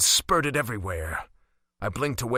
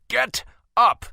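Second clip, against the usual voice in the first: much higher and louder roar of command; dominant command; 10 semitones higher, 8 dB louder than usual. A narrator's reading. Caspian commanding the crowd a second time, full dominance. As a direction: make the whole crowd obey at once. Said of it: "with unquestionable dominance".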